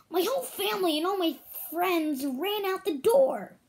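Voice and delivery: lightly voiced little ant; tiny ant voice. A narrator's reading. Vincent the ant speaks.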